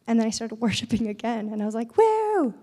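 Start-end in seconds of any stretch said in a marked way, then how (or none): 2.0-2.5 a high, loud whoop of joy; excited whoop. Retold or imitated. Woman cheering in worship at the altar, high whoop.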